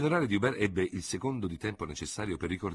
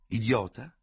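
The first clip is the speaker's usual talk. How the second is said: "Idiota" repeated slyly with a questioning rise; mocking echo; 6 semitones higher, 4 dB louder, slower than usual. A narrator's reading. Dubert echoing his rival's word, sly. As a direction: echo "Idiota" back mock-gravely. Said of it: "con maliziosa gravità".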